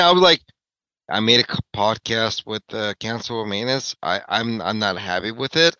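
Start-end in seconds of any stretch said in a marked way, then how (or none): 1.1-5.7 quiet, low retelling of a glum admission; dejected confession. Retold or imitated. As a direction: confess it softly, a little deflated. Retelling his dejected phone call.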